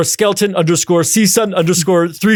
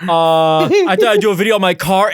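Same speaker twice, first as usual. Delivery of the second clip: faked low effort; 3 semitones higher than usual. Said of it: "It looks like low effort".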